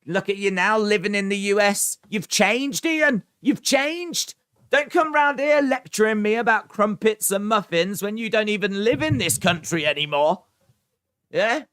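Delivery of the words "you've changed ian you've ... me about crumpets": higher, hammed-up wounded cry; mock betrayal. Teasing Ian for leaving Britain, hammed-up wounded accusation. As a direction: play the heartbroken friend, overdone.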